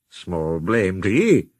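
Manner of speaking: slow, heartfelt comfort; feelingly. Acted. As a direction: reassure his frightened friend. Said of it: "said Douglas feelingly".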